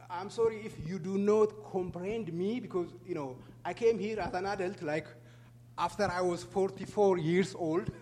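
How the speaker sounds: heavy Ethiopian accent in English; English spoken with an Ethiopian accent. Real, not acted. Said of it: "I have a heavy Ethiopian accent".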